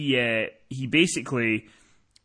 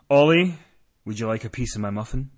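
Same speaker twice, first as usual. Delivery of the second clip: provocative; 3 semitones lower, 3 dB louder than usual. Retold or imitated. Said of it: "looks at Ollie very provocatively and says".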